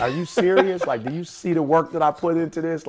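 retold wounded protest, mildly indignant; retelling a hurt objection; hurt disbelief. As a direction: plead your case, a touch offended. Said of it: "I was so hurt, bro".

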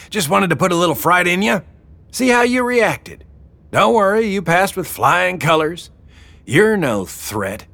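high-pitched teasing boss woman; teasing Wilma. Acted. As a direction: tease them after the prank in a high voice. Wilma explains the prank.

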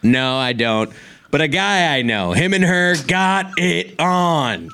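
Chris Farley impression. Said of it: "as funny as your impression".

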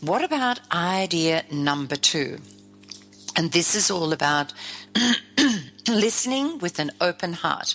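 croaky voice from a sore throat. Real, not acted. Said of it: "with my croaky voice".

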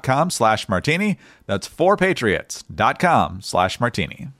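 brisk, punchy podcast ad read; sponsor ad read. Acted. Host pitching a sponsor's deal to listeners, upbeat ad read. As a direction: sell the generator with steady energy.

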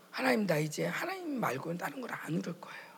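hushed, breathy confession to God; whispered prayer. Retold or imitated. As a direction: whisper it like a private vow. Speaker voices her prayer. (속삭이는 기도)

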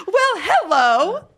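slow, high, loud posh greeting; formal adult voice. Retold or imitated. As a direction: play the stiff grown-up. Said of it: "I get real like".

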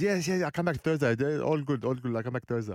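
light imitation of a laid-back player; carefree teammate. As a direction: toss it off like all is fine. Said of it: "He goes".

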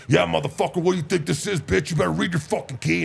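retold coach yell. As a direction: bark it like an angry lineman. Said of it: "And he's like".

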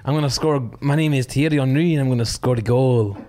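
botched French accent drifting towards Scottish; badly faked French footballer accent. Shown as a demonstration. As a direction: attempt French, landing half Scottish. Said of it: "That was more Scottish than your Scottish".

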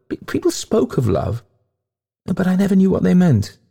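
high, impassioned ghostly lament; plaintive ghost lady. A narrator's reading. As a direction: plead high, with wailing drama. Ghost pleads with Winterslow.

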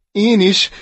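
high, loud eager shout. Acted. Chick shouting back as it jumps in, loud. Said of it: "kiáltotta".

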